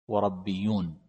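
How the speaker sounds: ربيون pronounced rabbiyyun, with an "a" after the ra; fatha on the ra. Shown as a demonstration. Teacher showing students the variant reading, ربيون said as rabbiyyun. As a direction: say ربيون with a fatha: rab-bi-yyun. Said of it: "وجاء عن ابن عباس بالفتح".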